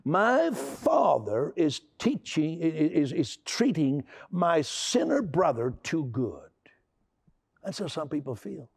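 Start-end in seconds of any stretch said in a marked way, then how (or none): 0.0-6.5 put-on upset older brother. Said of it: "He says".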